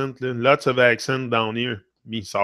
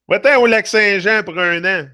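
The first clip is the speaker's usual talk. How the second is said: laughing; 6 semitones higher, 4 dB louder than usual. Real, not acted. Laughing Quebec tip to English speakers.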